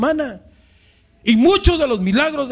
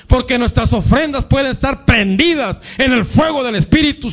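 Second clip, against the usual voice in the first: fervent prayer; 3 semitones higher than usual. Acted. Pastor praying over congregation, fervent and rising. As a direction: pour it out to God with growing fervor. Pastor prays aloud to close.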